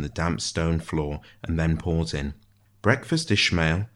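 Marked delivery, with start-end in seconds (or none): 2.8-3.9 lilting call, worn into routine; sing-song routine greeting. A narrator's reading. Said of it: "a voice warning to sing-song".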